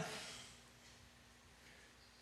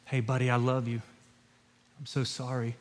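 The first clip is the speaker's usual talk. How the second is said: softer, tender retelling of a hushed comfort; gentle whisper to son; 4 semitones lower, 5 dB quieter, faster than usual. Retold or imitated. Father comforting his fallen toddler son, soft and tender. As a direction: hush it like soothing a hurt toddler. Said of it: "I whispered in his ear".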